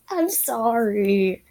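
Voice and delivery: slow, gentle sorry; tender apology; soft apology. Acted. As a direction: say it softly to her. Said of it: "Sans says softly".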